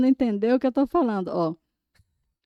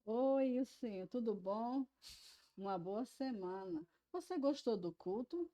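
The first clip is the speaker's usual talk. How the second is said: much softer, nearly voiceless words while signing; silent signing; 13 dB quieter than usual. Shown as a demonstration. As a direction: mouth the words gently as you sign. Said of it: "em Libras".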